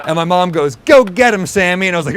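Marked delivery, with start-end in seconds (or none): 0.8-1.9 bright loud cheer, pitched up; mock cheer. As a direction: cheer your son on. Mom cheering son on.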